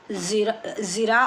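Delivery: ज़िरा with the final vowel squeezed in the throat; teacher's careful model of ज़िरा, ending on ayn; throat pressure ending. Shown as a demonstration. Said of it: "आप थोड़ा हलक पे pressure".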